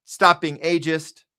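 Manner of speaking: a mild put-on of a defensive fan; mocking Biden supporter. Streamer imitating Biden supporters, mildly mocking.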